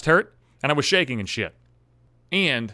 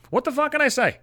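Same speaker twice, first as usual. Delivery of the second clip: "What the fuck can I say?" pitched way up in mock despair; exasperated high repeat; 12 semitones higher than usual. Shown as a demonstration. Venting to viewers about stalking his ex's house, "What the fuck can I say?" squeaked high. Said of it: "repeated line, pitched way up".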